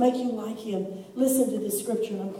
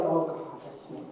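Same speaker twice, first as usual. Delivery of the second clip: laughing confession; 5 semitones lower, much slower than usual. Retold or imitated. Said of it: "I've read that and go".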